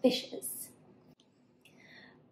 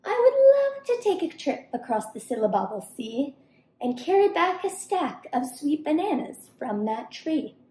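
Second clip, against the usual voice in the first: lightly raised, eager monkey; lightly voiced eager monkey; 3 semitones higher, faster than usual. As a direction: wish aloud in a quick, hopeful lilt. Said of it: "she sighed".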